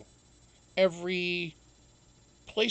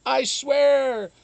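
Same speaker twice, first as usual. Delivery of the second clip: embarrassed laughing; 7 semitones higher, 9 dB louder, slower than usual. Real, not acted. Embarrassed about outing Trudeau.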